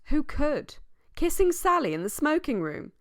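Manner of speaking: high-pitched scandalised disbelief; incredulous. A narrator's reading. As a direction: pitch it high, as if the idea were absurd. Narrator voices disbelief at the accusation.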